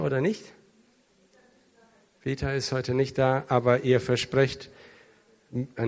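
normal talking voice

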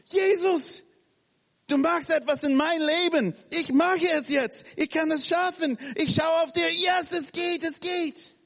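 high, loud, eager confidence; breathless high cheer of yes it works; excited self-talk. Acted. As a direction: psych yourself up, eyes on Jesus. Preacher voices Peter's excited faith.

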